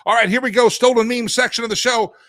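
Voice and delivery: loud, high-pitched show-host kickoff; hyped segment intro. Real, not acted. Host kicking off the stolen meme section, hyped up. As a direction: belt it out to launch the segment.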